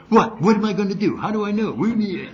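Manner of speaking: high, loud whiny objection to his own conscience; exasperated protest. Retold or imitated. Arguing with his conscience during the game, exasperated and whiny. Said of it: "this is me talking to me".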